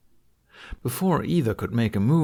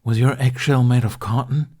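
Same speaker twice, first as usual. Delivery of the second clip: louder, higher mocking jab; mocking taunt; 4 semitones higher, 6 dB louder than usual. A narrator's reading. Dragoness taunting Toothless, louder mocking voice. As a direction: sneer at his softness.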